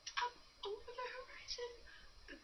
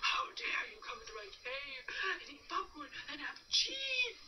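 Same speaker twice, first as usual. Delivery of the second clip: mildly angry bear scolding; grumpy bear; 5 semitones higher than usual. Acted. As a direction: scold them like an annoyed bear. Woken bear scolds friends.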